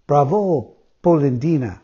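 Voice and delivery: tiny voice crying out a taunt; tiny teasing voice. Acted. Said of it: "cried the same tiny voice".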